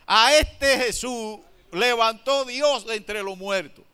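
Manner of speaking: firm, loud accusation pointing at the crowd; accusing. Retold or imitated. Pedro accusing the crowd, firm loud accusation. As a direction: hammer the blame on ustedes. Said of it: "y acusó directamente".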